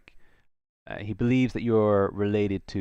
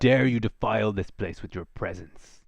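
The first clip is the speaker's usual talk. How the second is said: hissing reptile growl; slower than usual. Acted. Angry creature guarding altar.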